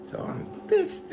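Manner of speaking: slow breathy whisper; whispered aside. Retold or imitated. Boy whispering aside to himself. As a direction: hiss it under the breath.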